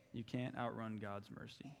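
soft repeat. Real, not acted. Quiet repeat of the point.

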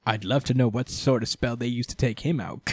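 soft gloating villain voice; hushed, self-satisfied villain with a cackle; smug villain Morris. Retold or imitated. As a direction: savour the chaos like a pleased schemer. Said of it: "just like".

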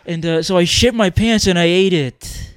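loud, slowing wacky confession; dumb freak act. Pretend. Comic plays the show's freak for cohost, mock-wacky. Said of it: "the dumb freak".

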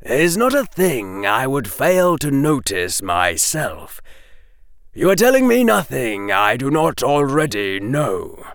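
mild, measured correction; mildly. Acted. Professor Quirrell telling the boys he already knows, mildly. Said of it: "said Professor Quirrell mildly".

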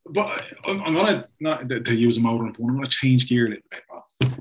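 echoey, like in a basement. Real, not acted. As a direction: sounds like a basement room. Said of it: "Very echoey there".

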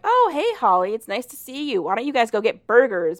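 high, bright fake friendliness; overly nice greeting, hiding a sneer.

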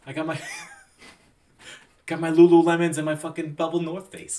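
put-on giggling suburban girl brag; valley girl. Joins the girl impression.

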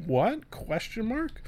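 mock bafflement. Mock confusion at the title.

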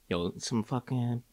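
slow, drawn-out mock street accent; a slow put-on tough-guy accent ordering pizza. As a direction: stretch it out in the jokey accent. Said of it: "I'd say it in that accent".

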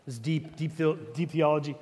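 low, soft murmur; hushed, mock-deep musing; imitated pondering students. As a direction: play students privately puzzling over a trick question. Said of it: "all of us were like".

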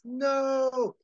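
high, long drawn-out shout; shouted protest. Acted. Chet shouts as Woody grabs the cable, desperate shout. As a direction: cry out to stop it. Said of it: "And Chet shouts".

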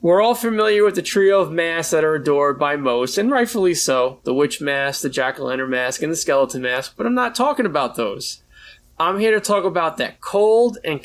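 measured, dramatic review narration; review read. Acted. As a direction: read it like a spooky film essay. Reads prepared review.

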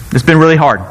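"been" leaned on, a light Trump voice; Trump impression. The speaker as Trump, stressing "been" lightly. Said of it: "I started sounding like Trump there".

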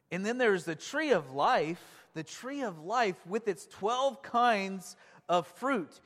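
slow, emphatic Bible reading; scripture reading. Real, not acted. Preacher reading about the tree of life to congregation, deliberately. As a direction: read it out deliberately, weighting key words.

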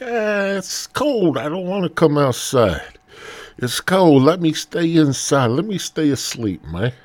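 high-pitched reluctant whine; sleepy Willie complaining. Acted. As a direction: plead to be left sleeping, high and put-on. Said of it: "He's there, he's sleeping".

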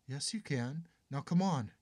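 high, loud insisting; tearful insisting. Acted. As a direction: near tears, demanding she come. Chin quivering, pulling her mother.

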